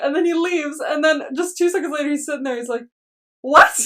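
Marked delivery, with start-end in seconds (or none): 3.4-3.7 delayed freak out. Retold or imitated. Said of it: "it's so delayed, his freak out".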